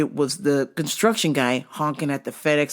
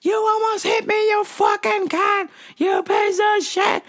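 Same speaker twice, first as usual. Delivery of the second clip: furious road rage yell. Retold or imitated. Construction guy cursing at the FedEx lady, furious shout. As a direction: spit the insults out in a rage. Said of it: "He was like".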